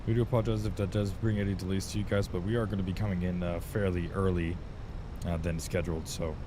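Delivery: calm captain's cabin announcement; pilot over the radio. Acted. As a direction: address the passengers like an airline captain.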